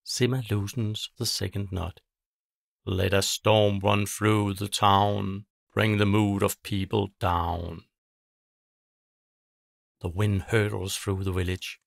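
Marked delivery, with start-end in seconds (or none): 2.8-7.9 a witch chanting over her knotted string; witch incantation. Acted. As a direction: intone the curse like a ritual. Witch casting a spell.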